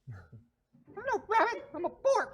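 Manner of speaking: very high, drawn-out little critter; squeaky small-creature voice; tiny creature voice. Acted. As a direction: protest as a tiny furry creature. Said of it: "you hear a tiny voice".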